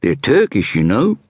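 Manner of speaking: lightly voiced inspector introducing himself; inspector's voice. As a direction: play the self-assured Scotland Yard inspector. Inspector chatting in the coach.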